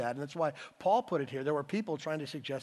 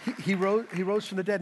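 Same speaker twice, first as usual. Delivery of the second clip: higher, louder triumphant repeat; loud proclamation; 5 semitones higher, 5 dB louder than usual. Real, not acted. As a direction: proclaim it with rising force.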